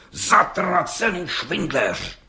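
slow, spat-out curse of a fed-up judge. Acted. Judge cursing the lying bricklayer, slow and bitter. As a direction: drag the insult out in contempt.

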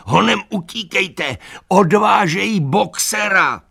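high, loud, frantic yell; panicked shout. A narrator's reading. Benjamin calling the animals to run, frantic high shout. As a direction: scream the warning across the yard. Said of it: "křičel".

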